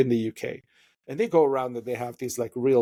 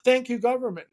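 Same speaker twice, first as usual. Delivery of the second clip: higher-pitched, mock delighted citizen; won-over public; 4 semitones higher than usual. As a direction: act out people happily buying the pitch. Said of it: "people are like".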